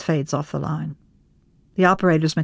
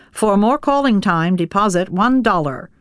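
mechanical operator voice; 3 semitones higher, 3 dB louder than usual. Acted. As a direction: read it like an automated operator. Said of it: "the mechanical voice breaks in".

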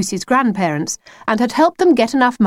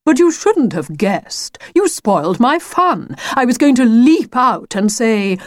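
lightly voiced theatrical wolf, higher; put-out wolf; 4 semitones higher than usual. The wolf scolds Lucy for spoiling his fun, mildly put out. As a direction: complain like a let-down showman wolf.

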